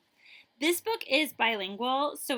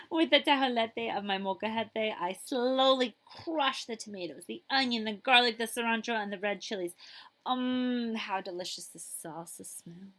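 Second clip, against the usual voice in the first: lively storybook reading; reading to children. Acted. Librarian reading a picture book to children, lively. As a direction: read it like story time for kids.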